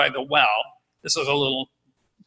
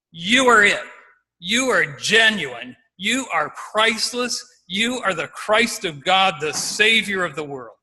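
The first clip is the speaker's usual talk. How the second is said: firm, certain declaration of faith; mildly voiced, state each phrase with conviction; emphatic Peter; 4 semitones higher than usual. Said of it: "Peter is emphatic".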